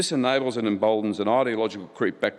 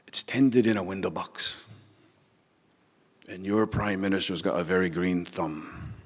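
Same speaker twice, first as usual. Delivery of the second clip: put-on slow, measured Northern Irish accent; lightly imitating an Irish brogue, slow; slower than usual. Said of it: "in his wonderful Irish brogue".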